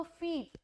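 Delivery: फीट with a long stretched ee. Shown as a demonstration. Teacher models a long ee in फीट for students. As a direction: hold the ee in फीट. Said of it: "ई पे हमारा बहुत ज़्यादा दबाव आता है".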